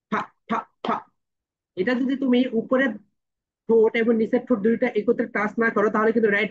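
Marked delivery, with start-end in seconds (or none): 0.1-0.9 ফা repetido três vezes, curto e claro; letter sound fa. Shown as a demonstration. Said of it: "ফি sounds like ফা".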